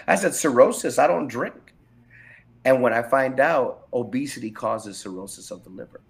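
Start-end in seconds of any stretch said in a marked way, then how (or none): 0.3-1.7 baffled protest, pitch lifting; disbelief. Retold or imitated. Patient reacting to the doctor's cirrhosis diagnosis, incredulous. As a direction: push back in loud surprise.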